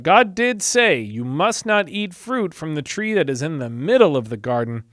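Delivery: 神の言葉を強調して; building emphatic warning. Acted. Eve quoting God, building.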